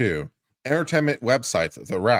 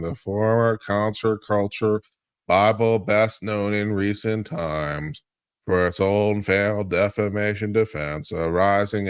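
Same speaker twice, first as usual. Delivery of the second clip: Eeyore voice. Acted. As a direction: drag each phrase out like gloomy Eeyore. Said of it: "if you don't get out of Eeyore".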